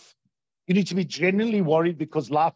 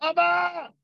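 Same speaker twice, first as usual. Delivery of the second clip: mock child's scream; 12 semitones higher than usual. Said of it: "He screamed".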